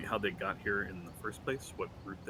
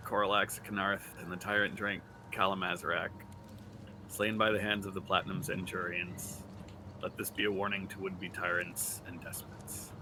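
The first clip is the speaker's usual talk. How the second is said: orc voice. Acted. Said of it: "I want it read in Orc's voice".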